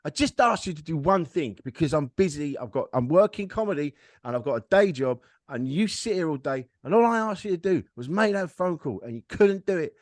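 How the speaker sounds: mock partner's telling-off, hitting key words; losing her shit. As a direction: imitate a fed-up partner reeling off grievances. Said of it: "lost her shit and gone".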